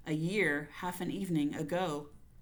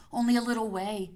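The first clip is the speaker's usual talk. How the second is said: breathless urgent plea, fast and louder; desperate prayer; 4 semitones higher, 5 dB louder, faster than usual. Acted. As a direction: pray in a rush of fear. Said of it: "she prayed".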